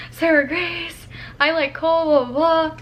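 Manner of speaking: high, flustered confession; mock-frantic confession to a friend; retold freaking out. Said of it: "I was, like, freaking out".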